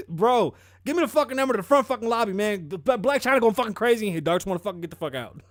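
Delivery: loud, high frantic demand; hammed-up frantic shouting; spazzing. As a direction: play a panicked caller yelling down the phone.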